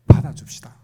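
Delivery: loud, forceful urging; emphatic appeal. Real, not acted. Preacher urging congregation to accept others' outbursts, loud and emphatic. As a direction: press the appeal on the listeners. Urging listeners, first take.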